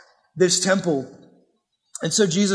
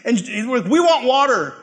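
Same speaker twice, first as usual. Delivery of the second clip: whining Israelites; 5 semitones higher than usual. Retold or imitated. Israelites complaining to Moses about water, high and whiny. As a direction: pitch it up like thirsty grumblers in the desert. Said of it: "They're like".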